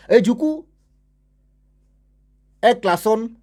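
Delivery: high and loud, building suspense; storyteller's high excited punch; dramatic excitement. Real, not acted. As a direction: announce the big moment.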